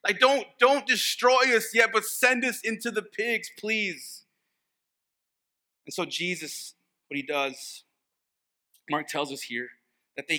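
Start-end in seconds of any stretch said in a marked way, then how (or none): 0.0-4.2 higher, urgent mock pleading; acted plea. Demons ask Jesus for the pigs, mock pleading. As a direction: beg lightly for another way out. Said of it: "they had a strange request to Jesus".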